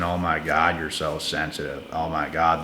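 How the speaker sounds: mock their eye-rolling brush-off; imitating someone who belittles you; mocking imitation. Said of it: "they wanna pull out all those different cards".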